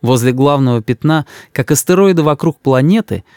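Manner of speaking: usual speaking voice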